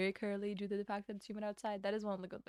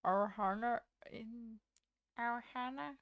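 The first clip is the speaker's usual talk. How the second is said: Stitch voice attempt; slower than usual. Shown as a demonstration. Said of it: "I also just lose it too quickly".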